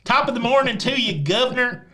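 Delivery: high-pitched, hammed-up British accent; mock British greeting. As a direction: play an American badly faking British. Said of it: "if I go over there".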